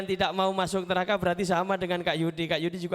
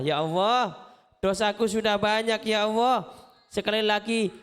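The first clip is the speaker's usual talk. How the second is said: prayer. Acted. Leads children in prayer.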